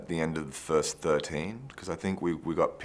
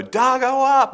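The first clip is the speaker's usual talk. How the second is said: loud high call across the set; 10 dB louder than usual. Retold or imitated. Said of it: "the first would go".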